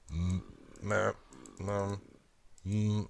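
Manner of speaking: wordless villager grunts; villager impression. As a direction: hum short murmuring game-villager noises. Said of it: "that was my best villager impression".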